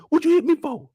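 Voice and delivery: high whining question; whiny Doughboy. Retold or imitated. Quoting Boys in the Hood, high and whiny. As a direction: whine it like a hurt kid. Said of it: "What he say on Boys in the Hood?".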